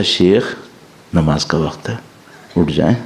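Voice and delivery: a soft, loving call to prayer; gentle wake-up. Retold or imitated. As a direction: coax him awake tenderly. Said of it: "اتنے پیار سے اٹھا، جیسے ماں اٹھا رہی ہے".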